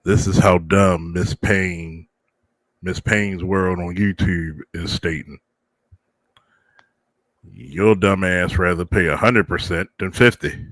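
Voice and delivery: creaky elder grumbling; very old man. Pretend. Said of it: "I gotta go with my old man voice".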